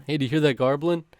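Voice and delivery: put-on quoting Rob in a light Boston accent, garbling for gobbling. Rob asking the tribe about the rooster, light Boston accent. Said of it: "That's an actual quote".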